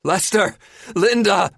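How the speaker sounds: high, loud calls for help; yell. A narrator's reading. Hurt woman calling the others from below, yelling. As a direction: yell names across the boat. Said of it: "Terry yells".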